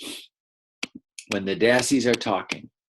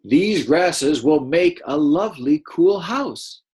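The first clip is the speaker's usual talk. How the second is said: a dassie's voice; 4 semitones higher, 4 dB louder, slower than usual. Shown as a demonstration. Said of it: "Then they're gonna say something".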